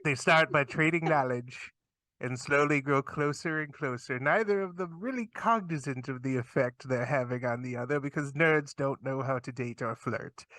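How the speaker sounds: nature documentary narrator; hushed wildlife host voice; Steve Irwin voice. Pretend. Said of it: "in a Steve Irwin voice".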